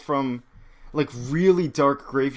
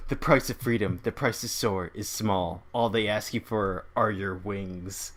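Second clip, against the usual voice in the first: lower, softer solemn narration; comic book narration; 4 semitones lower, 4 dB quieter than usual. Retold or imitated. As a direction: read it as a grave voice-over. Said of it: "there's the narration".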